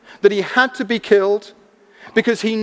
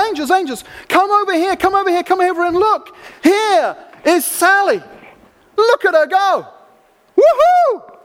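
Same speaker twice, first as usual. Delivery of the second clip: excited cheering God; 6 semitones higher than usual. Retold or imitated. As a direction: whoop it up like a proud father showing off his child. God calls angels to celebrate.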